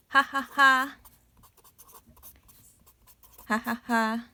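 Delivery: bright ha-ha-ha; open laugh. Shown as a demonstration. Teacher showing her own laugh, open ha-ha. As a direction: laugh openly. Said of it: "laughing sound is ha ha ha".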